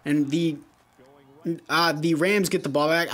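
stumbling, stuttering start. Real, not acted. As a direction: trip over the words in a stutter. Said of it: "I don't know why I'm stuttering so bad".

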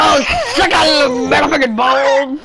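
hillbilly voice. Pretend. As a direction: yell it like a rowdy hillbilly. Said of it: "you sound like a hillbilly".

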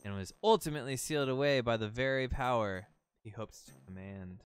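lightly hammed-up storybook guardian; solemn talking boat. Talking boat warns Link about Ganon, mildly solemn. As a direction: read it as a grave warning, lightly acted. Reads the boat's lines aloud.

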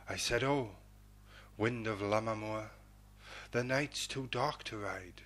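measured, rolling ballad reading; stirring border-ballad recital; poem recitation. A narrator's reading. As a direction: read it like a fireside ballad, steady and stirring. Reads a ballad poem aloud.

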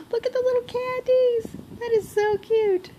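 high, gushing squeal over the candies; gasp, then coo it up high; real thrilled squeal at a gift; excited gasp. Real, not acted. Unboxing gift, gasping delight.

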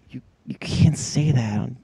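character voice. Retold or imitated. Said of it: "he'll break character and just be like".

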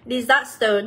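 "disaster" stressed on SAS; stress on second syllable. Shown as a demonstration. Teacher reading option D, "disaster" stressed on its second syllable. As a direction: lean on the middle syllable of "disaster". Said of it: "đây là âm số hai".

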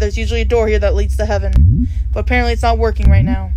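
a calm grim reaper explaining the situation; reaper NPC voice. Acted. Reads reaper NPC dialogue aloud.

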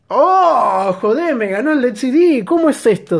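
high-pitched surprised protest; shocked outcry. Real, not acted. His new top loses. (sorpresa indignada, voz aguda)

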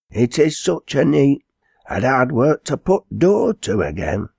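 put-on high dialect girl's exclaiming; servant girl, astonished. Servant girl telling of the door, high and astonished. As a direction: pitch it high, full of the storm.

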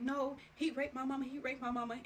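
insist, pushing back hard; mock insistent protest. Protesting on Facebook, retold.

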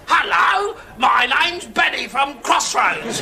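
put-on Irish accent. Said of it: "in an Irish accent".

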